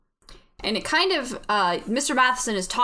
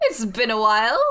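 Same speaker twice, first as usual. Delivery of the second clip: bad British accent; 4 dB louder than usual. Voice in the head greets the player, put-on British accent. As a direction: greet them in a hammy British voice. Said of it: "I love that they're British".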